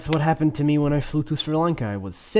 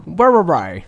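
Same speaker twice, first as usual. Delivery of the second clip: loud teasing mimic; mocking echo; 5 semitones higher, 8 dB louder than usual. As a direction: throw the words back, mocking. Mocking the other's grammar.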